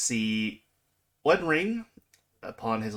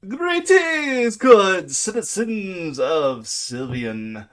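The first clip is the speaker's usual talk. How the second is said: booming dragon; 3 semitones higher, 8 dB louder, slower than usual. Acted. Game master's dragon announces himself to the town, booming. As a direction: boom it out slowly over a whole town. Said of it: "booming voice that literally, like, it could be heard".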